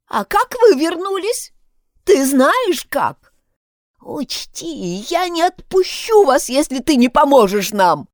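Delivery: loud, high pleading shout. A narrator's reading. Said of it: "снова закричала она". (громкий крик)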